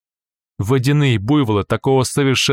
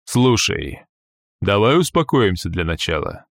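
peaceable. Acted. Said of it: "как можно более миролюбиво".

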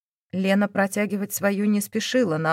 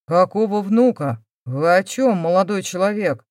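louder, shocked demand; father stunned by grandchild news, louder and shocked; 5 dB louder than usual. Acted.

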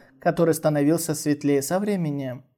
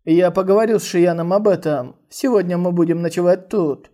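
a louder, sly grin in it; sly smirk; 5 dB louder than usual. Acted. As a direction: say it with a smug smirk. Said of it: "с ехидной улыбкой сказал".

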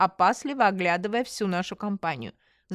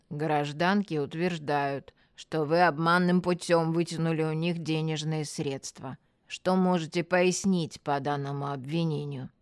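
lower, routine official questioning; matter-of-fact; 4 semitones lower, 3 dB quieter than usual. Acted. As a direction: recite the accusation like everyday police business. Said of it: "мужчина будничным тоном проговорил".

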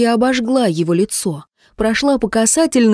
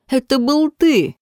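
exclaiming; 6 semitones higher than usual. A narrator's reading. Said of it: "воскликнула она".

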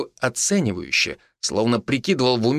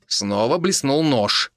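plain reading voice

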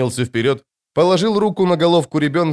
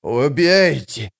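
slow crone plea; 2 semitones higher, much slower than usual. Acted. Crone repeats kill order.

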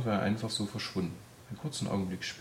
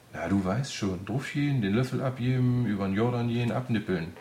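louder, higher, chatty run of slang; carefree odd man; 3 semitones higher, 5 dB louder than usual. Acted. Odd man explaining dying to the frightened girl, carefree. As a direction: rattle off the euphemisms breezily.

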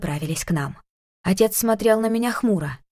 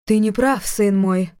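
eerie otherworldly voice; slower than usual. Acted. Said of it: "вещала жутким потусторонним голосом".

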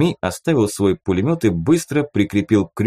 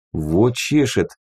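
wry smirk; slower than usual. Acted. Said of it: "хмыкнул звездочёт".

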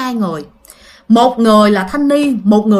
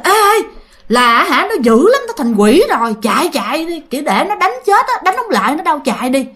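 higher-pitched, lightly acted alarmed man; man's urgent reply; 4 semitones higher than usual. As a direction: urge the others to run, voice raised in pitch. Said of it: "một cái giọng nam trả lời". (giọng nam hối thúc, hơi hoảng)

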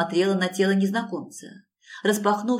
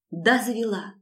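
plain reading voice

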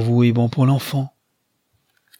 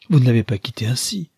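exclaimed; faster than usual. Acted. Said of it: "s'écria Rosamond".

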